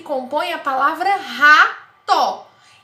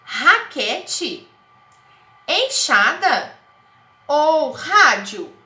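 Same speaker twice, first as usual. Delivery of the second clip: slow, louder questioning of each word; teacher asking children to choose; quizzing options; 6 dB louder, much slower than usual. Shown as a demonstration. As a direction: offer each picture as a question. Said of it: "também começam com a mesma sílaba".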